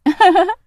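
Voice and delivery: short high coquettish giggle; a sweet teacher's little laugh; disguised witch giggling at the cheeky boy. Acted.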